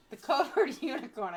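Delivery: giggling through the phrase; laughing. Real, not acted. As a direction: laugh as you say it. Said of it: "I can't stop laughing".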